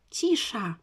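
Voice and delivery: a loud, sharp "Cisza"; mother's shout. A narrator's reading. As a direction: silence the kids with one loud word. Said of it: "krzyknęła mama".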